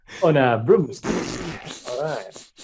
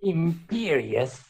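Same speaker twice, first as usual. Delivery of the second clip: slow, drawn-out villain's spell; Voldemort; 3 semitones higher, 4 dB quieter, much slower than usual. Acted. Trying out Voldemort's movie voice, slow villain incantation. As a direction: stretch the word out as a mock villain. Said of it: "how does he talk in the movies?".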